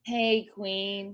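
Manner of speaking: lightly voiced First Lady impression; understated put-on greeting; a hint of an impression on the greeting; Michelle Obama. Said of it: "Give me your Michelle Obama impression".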